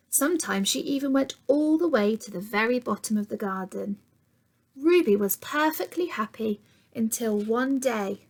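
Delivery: put-on gentle storytime read to young children; storybook narration for kids; story reading. A narrator's reading. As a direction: read it like a picture book to little ones. Reads picture book to children.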